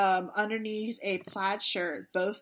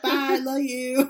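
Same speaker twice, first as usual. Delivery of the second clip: mock sweet goodbye; 5 semitones higher, 6 dB louder, slower than usual. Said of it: "I was like".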